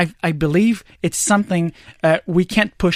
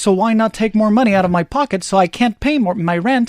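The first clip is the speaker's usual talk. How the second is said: mock pleading, tongue in cheek; sarcastic; 3 semitones higher than usual. Host pretending everyone has money to spare, sarcastic. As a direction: feign cheerful agreement to being taxed. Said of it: "I'm being very sarcastic".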